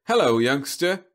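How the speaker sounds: high, loud chirpy greeting; robot salesman voice. Acted. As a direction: greet the kid like a vending machine.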